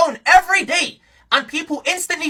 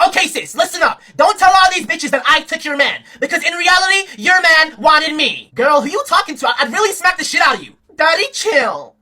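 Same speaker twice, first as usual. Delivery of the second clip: lightly voiced sassy, fruity quarrel; mock zesty arguing. Four gay guys arguing on a live, mock sassy voices. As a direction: imitate sassy guys bickering. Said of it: "they all had the same voice".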